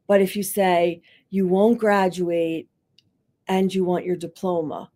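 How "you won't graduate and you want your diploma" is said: a respectful counselor giving a double-sided reflection; neutral and even. Shown as a demonstration. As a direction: set both facts down calmly for them to decide. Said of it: "you're, like, putting this in front of them".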